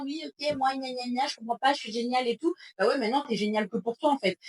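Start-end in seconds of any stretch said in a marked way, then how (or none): 0.0-2.5 mock whiny complainer, slightly higher; pleurnicherie moqueuse. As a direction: imitate someone moaning, lightly mocking. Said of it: "passer ton temps à faire ouin ouin". (imitation moqueuse d'une pleurnicheuse)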